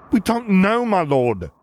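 high frightened squeak; squeaky voice. Acted. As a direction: squeak it out in fear. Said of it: "the officer squeaked out".

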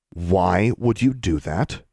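slow, deliberate demand; controlled anger. Acted. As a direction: draw the question out with restrained rage. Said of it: "voice low".

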